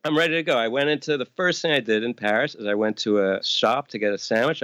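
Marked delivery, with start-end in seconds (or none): 0.0-0.6 high, chipper tourist confidence; mock eager. Retelling his naive excitement before Paris. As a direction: sound cheerfully overconfident. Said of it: "I was like".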